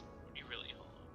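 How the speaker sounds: pressing in a whisper. Acted. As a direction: whisper the question, probing.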